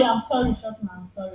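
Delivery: soft, low apology trailing down; subdued apology. Real, not acted. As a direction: apologise quietly, backing down. Prankster apologising to angry man.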